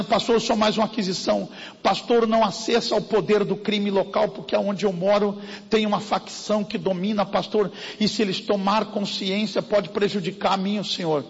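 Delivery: a scared church lady hushing him; mock fearful plea. Frightened woman voiced by pastor.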